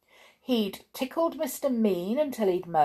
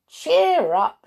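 high, loud and cheery; grinning encouragement; 9 semitones higher, 8 dB louder than usual. A narrator's reading. Little Miss Magic bucks up Mister Happy, grinning. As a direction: say it through a grin. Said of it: "she grinned".

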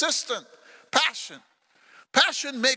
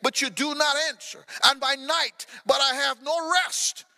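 rising to a raised shout on holy God; psalmist's lament; 3 semitones higher than usual. Acted. Preacher voicing David, crying out yet praising God. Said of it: "He says".

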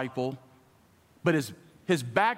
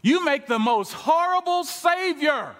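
slow, drawn-out, higher-pitched delivery; slow, weighty question; 9 semitones higher, slower than usual. Retold or imitated. Gary drives home his hard point to Ben, slowly. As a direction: lean on each word slowly. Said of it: "He says".

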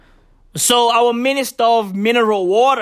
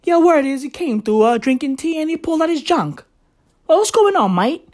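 put-on higher-pitched, half-hearted London accent; meh London accent; 5 semitones higher than usual. Comic playing eighteen hundreds London gossip, meh London accent. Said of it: "My accent is meh".

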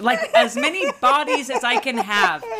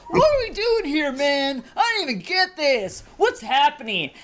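put-on high, fast, whiny kid complaining; bored kid voice; 6 semitones higher than usual. Daughter on a guardrail whining during the school tour. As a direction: play the fed-up ten-year-old, pitched way up. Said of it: "going like".

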